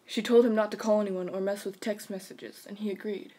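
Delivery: even, measured storyteller delivery; narrator voice. Shown as a demonstration. Reading a scary story to friends, narrator voice. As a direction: narrate steadily, letting phrase ends drop. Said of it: "I'm gonna use my narrator voice".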